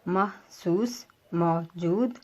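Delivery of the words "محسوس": محسوس drawn out very slowly, mah-soos; very slow demo word. Shown as a demonstration. Teacher slowing down محسوس for students to copy. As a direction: stretch محسوس slowly with a rise. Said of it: "اسی طرح، آ، محسوس".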